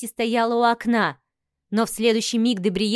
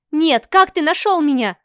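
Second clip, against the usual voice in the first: higher, louder startled exclamation; exclaiming; 4 semitones higher, 5 dB louder than usual. A narrator's reading. Wife to her husband who found her, loud exclamation. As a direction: blurt it out in alarm. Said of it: "воскликнула я".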